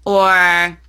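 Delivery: very clear standard British English; crisp, clear British standard accent. Shown as a demonstration. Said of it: "just be down here and very clear".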